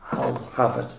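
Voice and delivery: low, soft, humble little bid; quiet old gardener. Retold or imitated. Old gardener quietly bidding against rich laughing relatives, hushed and humble. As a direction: speak up timidly from the back of the room.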